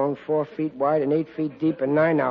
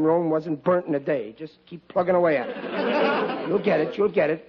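ordinary talk, nothing marked

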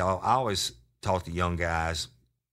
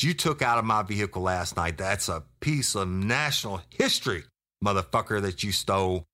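raised voice, mock outrage; indignant accusation; 3 semitones higher, 4 dB louder than usual. Officer to thief over heirloom pistol, acted indignation. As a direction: drive the retold accusation home forcefully.

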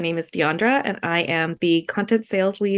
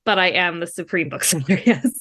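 mock boast. Real, not acted. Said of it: "I don't like to say it myself".

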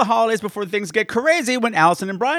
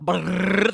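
short rolled-lip drum roll; rising lip brrr; lip-trill drum roll. Shown as a demonstration. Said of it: "there we go".

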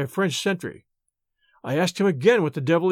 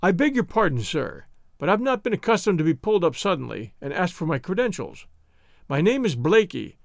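respectful. Acted. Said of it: "So my voice became respectful".

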